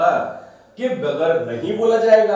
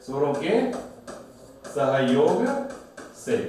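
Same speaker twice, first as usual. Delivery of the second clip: each word set apart with long pauses for writing; teacher spacing out words so students can copy; slow dictation. Shown as a demonstration. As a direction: dictate स्वरों के, then सहयोग, then से, slowly. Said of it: "ये ध्यान रखना है आपको".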